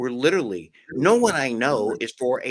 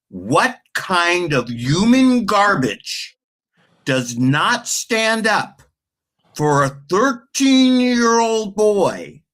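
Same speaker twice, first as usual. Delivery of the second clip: angry; 5 semitones higher, 6 dB louder, slower than usual. Real, not acted. Ranting about politicians not standing.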